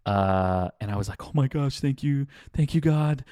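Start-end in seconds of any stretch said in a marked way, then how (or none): 1.2-3.2 higher, relieved thanks; excited relief. Retold or imitated. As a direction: gush with relief. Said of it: "I was so excited".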